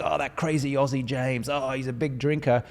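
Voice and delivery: mock the fans who loved the act; imitating Americans. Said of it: "They're like".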